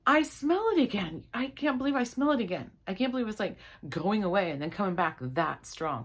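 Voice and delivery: can't believe the stink is back; exasperated. Retold or imitated. Smelling it again, exasperated.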